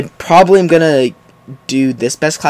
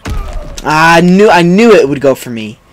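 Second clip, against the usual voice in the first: loud, higher wail of frustration; exasperated outburst; 4 semitones higher, 5 dB louder, slower than usual. Real, not acted. Gamer killed as he predicted, exasperated outburst. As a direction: complain loudly at the death.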